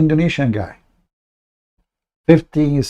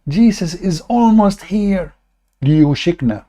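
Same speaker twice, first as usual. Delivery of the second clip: slow, higher mock solemn pronouncement; mock prophet quote; 5 semitones higher than usual. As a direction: ham up the prophecy slowly. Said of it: "He said".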